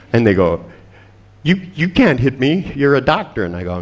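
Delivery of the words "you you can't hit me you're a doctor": higher, stammered protest; mock alarmed protest. Client protesting doctor's threat to hurt him, mock alarm. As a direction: play a client taken aback.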